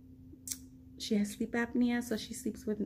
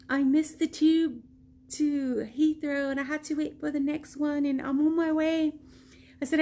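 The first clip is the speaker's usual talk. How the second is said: excited; 5 semitones higher than usual. Retold or imitated. Frantic phone exchange.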